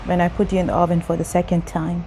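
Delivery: measured teacup's tale, phrase by phrase; parable narration. Acted. Continues parable, master answers teacup.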